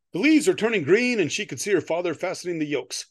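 measured storyteller with lifted sentence openings; story narration. Acted. Author reading a Halloween story to co-host, storyteller's narration. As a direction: read it out to an audience, stressing key words.

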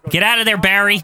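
calling out to the screen; yelling at the tv. Real, not acted. Urging wrestler while watching.

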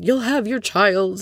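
slow, hammed-up comforting promise; mock-dramatic reassurance, drawn out. Imitating Ramona hugging Bethany, slow mock-dramatic. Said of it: "a little bit dramatically".

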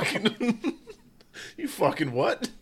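high put-on accent, laughing; hammed-up angry lad; mock rowdy Irish astronaut.

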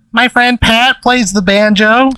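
high, slow, drawn-out character voice; Avery. Acted. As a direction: stretch it out up high, as if very stoned. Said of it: "She says it in Avery's voice".

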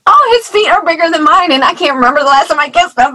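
high, loud, laughing through the words; half-laugh, half-wail at how fast he grew; laughing lament. Retold or imitated. Mother of an eleven-year-old laughing at his big feet. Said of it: "I'm like".

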